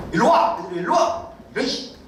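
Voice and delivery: barking orders at the crowd, mock; rough soldier shouting, hammed-up; mock rough command. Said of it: "이렇게 들어갔겠어요?". (거칠게 소리치는 흉내)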